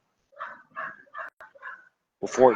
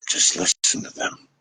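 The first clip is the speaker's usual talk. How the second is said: soft whisper; 4 dB quieter than usual. Real, not acted. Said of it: "advice whispered".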